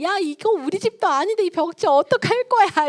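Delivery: angry mother. Acted. Mother scolding her child for drawing on the wall, loud and high. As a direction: explode at the child over the scribbled wall. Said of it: "이제 막 했어요".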